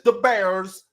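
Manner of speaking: light mock Chicago accent; white Chicago accent. Mimicking a white guy in Chicago, mock Chicago accent. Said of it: "a white guy in Chicago that says".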